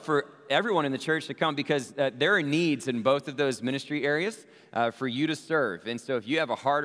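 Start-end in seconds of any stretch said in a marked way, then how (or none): 2.2-4.4 "needs" lifted out of the sentence; stress on NEEDS. Real, not acted. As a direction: lean on the word "needs". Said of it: "I emphasize the word need".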